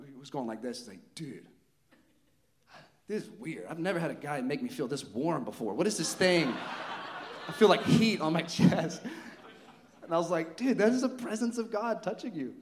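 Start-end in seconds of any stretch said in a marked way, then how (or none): 1.1-9.0 acted bewilderment. Bewildered man feels heat, acted. 10.6-12.5 high, loud, thrilled explanation; excited proclamation. Retold or imitated. Excited answer to amazed man.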